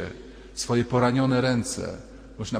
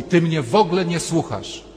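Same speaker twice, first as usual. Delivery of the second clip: higher, louder aggrieved complaint; complaining husband; 5 semitones higher, 4 dB louder than usual. Retold or imitated. Husband complaining his wife isn't listening. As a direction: whine it like an ignored husband. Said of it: "Ilu mężczyzn w kółko mówi".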